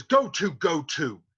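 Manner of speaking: scolding Capulet. Acted. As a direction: uncle warning the saucy boy. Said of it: "Capulet says".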